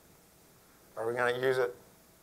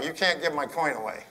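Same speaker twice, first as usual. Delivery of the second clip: laughing; 6 dB louder than usual. Real, not acted. Joking party-foul protest to dad.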